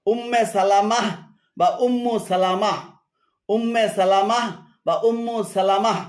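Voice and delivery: "সালামাহ" with a long second a and final h, not "সালমা"; correct name. Shown as a demonstration. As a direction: say "উম্মে সালামাহ" fully. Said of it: "শুদ্ধ হলো". ("সালামাহ" পুরো উচ্চারণ)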